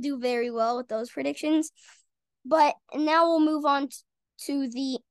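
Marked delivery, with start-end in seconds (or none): 2.4-5.0 hiccups cutting in; talking through hiccups; hiccuping. Real, not acted. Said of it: "sorry, these hiccups are terrible".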